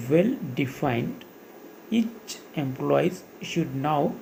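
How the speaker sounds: reading the notes out word by word, very slowly; slow dictation. Acted. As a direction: dictate it so students can write it down. Dictates textbook definition slowly.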